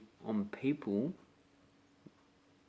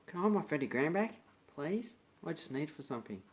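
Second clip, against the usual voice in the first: polite asking back; 5 semitones higher, faster than usual. Retold or imitated. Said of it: "they go".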